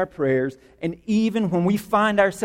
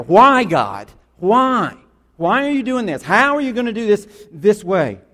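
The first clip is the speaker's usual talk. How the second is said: frustrated cry; 5 dB louder than usual. Retold or imitated. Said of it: "He's frustrated".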